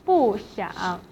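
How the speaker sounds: 不 falling into a dipping 想; fourth tone on 不. Shown as a demonstration. Teacher explaining the example, falling tone on 不. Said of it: "pronounced in fourth tone".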